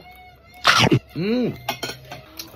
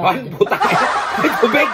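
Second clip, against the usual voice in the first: mouth burning from spicy food; 8 semitones higher, 3 dB louder than usual. Real, not acted. Spicy food, asking for water.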